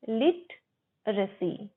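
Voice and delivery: 'लिटरेसी' slowly split as LIT, ruh-see; broken into parts. Shown as a demonstration. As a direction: teach 'लिटरेसी' in two slow chunks. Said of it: "लिटरेसी नहीं, लिटरेसी".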